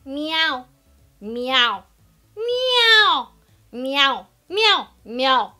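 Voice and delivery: playful singing-teacher meows; exaggerated meowing. Shown as a demonstration. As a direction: meow like a playful cat. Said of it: "muy exagerado, que resuene y jugando".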